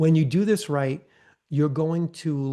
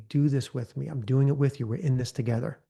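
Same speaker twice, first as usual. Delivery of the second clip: calm breathing guide. Shown as a demonstration. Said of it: "breathing deeply and slowly".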